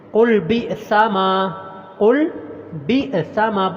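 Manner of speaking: بِئْسَ with a sharp catch on the hamza; بِئْسَ stopped abruptly on hamza; hamza with a jolt. Shown as a demonstration. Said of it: "حمزہ کو جھٹکے کے ساتھ پڑھنا ہے".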